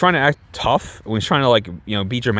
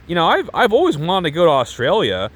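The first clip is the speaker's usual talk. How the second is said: higher, imitated not-so-subtle hint; unsubtle hinting; 5 semitones higher than usual. Girl angling for an invite, unsubtly hinting. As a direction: drop a heavy hint, pitched up. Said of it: "not so subtly".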